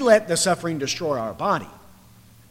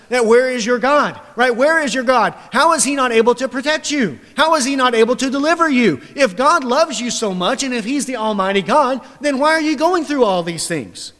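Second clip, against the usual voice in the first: raised, louder jeering questions; mocking taunt; 6 semitones higher, 3 dB louder than usual. Preacher voicing enemies who taunt the suffering believer, mocking. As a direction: voice the enemies' scorn, pressing each question. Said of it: "They will taunt us".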